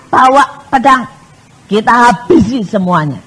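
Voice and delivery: heated command, mildly acted anger; a loud, hot-headed order, imitated; David. David ordering his men to arms, mock heated anger. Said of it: "Daud panas saat itu".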